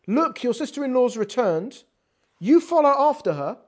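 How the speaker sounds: plain gentle advice; gentle reading. Shown as a demonstration. Teacher reading Naomi's line gently as advice. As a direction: say it kindly, as advice. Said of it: "Instead of saying gently".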